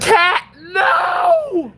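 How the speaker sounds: high, loud shout of alarm; sharp shout. Real, not acted. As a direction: yell at Cat to stop. Stopping cat from spamming.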